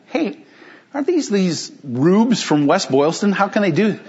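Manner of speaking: mock disbelief at the visitors, kept understated; scoffing MIT students. MIT students scoffing at rubes from West Boylston, mild mock disbelief. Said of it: "And they say".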